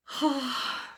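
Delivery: high swooning sigh; dreamy sigh. Acted. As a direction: sigh it out, smitten. Swoons after the kiss.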